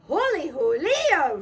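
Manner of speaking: slow, loud surprised squeal; squealing surprise. Acted. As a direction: squeal in amazement. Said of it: "squealed the kitty boy".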